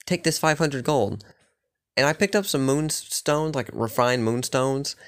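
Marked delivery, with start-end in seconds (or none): 0.0-1.2 quick, higher-pitched amazed voice, slowing at the end; impressed miner Perth. Retold or imitated. Miner praising the player who cleared the mine alone, amazed and quick. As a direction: gush over the lone hero, then hand over the gold. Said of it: "he's like".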